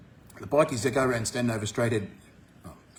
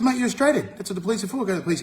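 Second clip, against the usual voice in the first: retold urging; 7 semitones higher, faster than usual.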